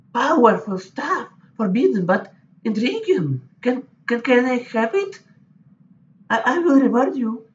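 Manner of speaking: very high, thrilled, keen and delighted. Reading a game scene as Incantatrix Questa, shown the green goo: excited Incantatrix Questa voice. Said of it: "Incantatrix Questa. Incantatrix Questa, I have that goo that you wanted from a breeding pit. You open the jar and show her the green goo, still shifting around under its own power. Her eyes light up".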